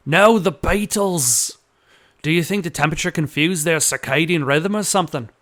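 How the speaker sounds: lightly put-on Australian voice; Australian accent. Joey explaining it's about the beetles, Australian accent. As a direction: keep the Australian accent going. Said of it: "gave him an Australian accent".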